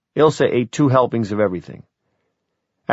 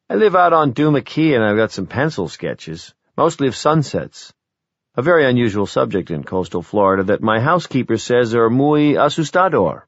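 mildly mock sales spiel, pitched up; sarcastic pitch; 3 semitones higher than usual. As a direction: lightly ridicule your own sales pitch. Father mocks idea of pitching himself.

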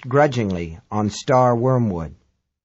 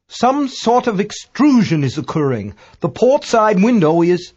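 high, louder character voice of an amateur astronomer; Dagbolt reporting; 7 semitones higher, 3 dB louder than usual. A narrator's reading. British astronomer reports the window failing, high and urgent.

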